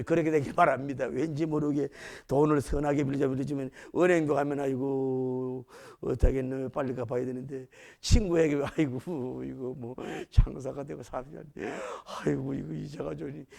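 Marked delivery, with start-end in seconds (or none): 4.6-7.7 worried moan. Acted. Borrower fretting about repaying the bank, low worried moan. 8.8-13.5 low, soft moaning; worried complaint. Acted. Borrower complaining to a friend about business, low moaning.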